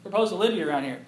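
high, eager hushed call to his wife; high excited aside to babe; excited nudge. Retold or imitated. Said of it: "I was like".

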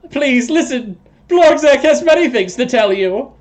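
loud, very high toad voice; pleading toad creature. Acted. Toad person begs party to listen, loud and shrieky high.

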